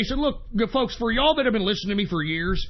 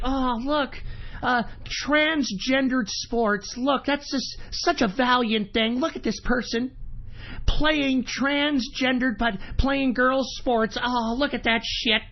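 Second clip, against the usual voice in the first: sarcastic mock praise; 3 semitones higher, slower than usual. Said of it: "there's articles written about this person like".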